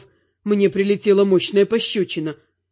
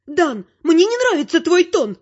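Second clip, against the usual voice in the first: mother snapping; 10 semitones higher than usual. Acted. Mother scolds son Dan for his tone, high and sharp. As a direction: snap at his tone. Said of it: "рявкнула матушка".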